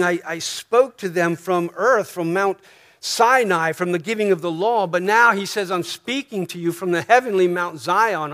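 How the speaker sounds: voicing God's warning at fuller force; preaching. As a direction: proclaim it like a voice from heaven.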